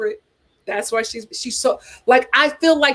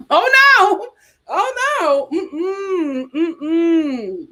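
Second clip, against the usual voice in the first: high, laughing oh no, mm-mm; real laughing denial; 6 semitones higher, much slower than usual. Real, not acted. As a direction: laugh it off in disbelief. Reacting to cheating comment.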